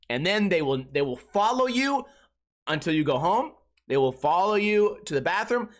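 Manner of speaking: normal talking voice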